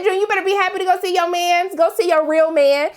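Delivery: high, excited egging on; hyped cheering. Retold or imitated. Vlogger cheering June on to see her real man, excited and high. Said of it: "I said".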